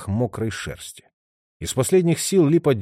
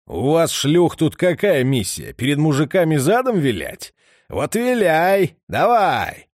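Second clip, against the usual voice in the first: louder, higher mocking snarl; menacing thug, louder; vicious taunt; 5 semitones higher, 4 dB louder, slower than usual. A narrator's reading. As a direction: spit it at her, slowing on виляй. The fat man humiliates Lipa.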